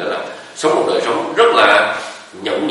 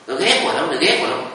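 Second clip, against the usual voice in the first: echo from the forest; 6 semitones higher than usual. Retold or imitated. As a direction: throw the words back like an echo. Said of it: "cái âm thanh mình gọi là echo đó". (tiếng vọng trong rừng dội lại, cao và nhỏ hơn)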